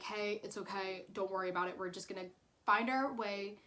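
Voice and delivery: calming. Retold or imitated. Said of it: "calming me down".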